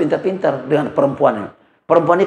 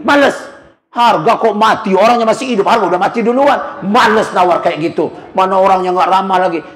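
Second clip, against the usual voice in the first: mildly sulky complaint about the price; sulky wife's complaint; 2 semitones higher than usual. Retold or imitated. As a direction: pout it out like a fed-up wife. Wife complaining about seller.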